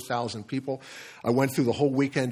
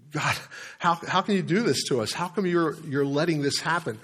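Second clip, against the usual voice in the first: higher-pitched pleading protest, not actually shouted; frustrated outcry at God, retold with raised pitch; retold angry yell; 4 semitones higher than usual. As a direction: re-enact yelling at God, at moderate volume. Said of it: "I just yelled".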